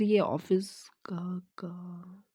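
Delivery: slow breathless whisper; words fall away to a whisper in shock; stunned whisper. Acted. Boyfriend seeing his girlfriend's dress, slow stunned whisper.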